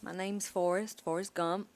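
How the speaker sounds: put-on light Alabama accent; Forrest Gump. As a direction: attempt a gentle Southern US accent. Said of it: "I'm not very good at accents".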